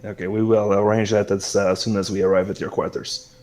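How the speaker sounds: put-on accommodating host with a French accent; courteous French-flavored hostess. Celeste answering Yafai's request for bugs, gracious French-accented hostess. Game master plays Celeste.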